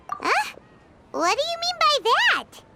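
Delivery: puzzled surprise. Real, not acted. Paimon puzzled by a remark.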